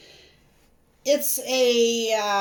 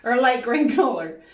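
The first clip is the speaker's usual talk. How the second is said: laughing; 4 dB louder than usual. Real, not acted. Laughs at own slip.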